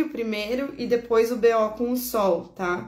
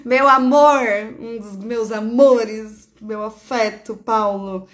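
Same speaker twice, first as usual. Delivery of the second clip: calling out; 6 dB louder, slower than usual. Real, not acted. Calling out to her love Paulo.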